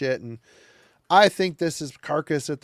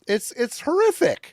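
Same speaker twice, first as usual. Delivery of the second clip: drawn-out disgust; 10 semitones higher than usual. Real, not acted. Disgusted at album cover.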